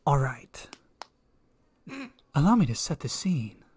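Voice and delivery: a hint of a creepy whisper setting the scene; lightly spooky intro; mock creepy storyteller. Starting a ghost story for friends, mock creepy. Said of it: "Was that creepy?".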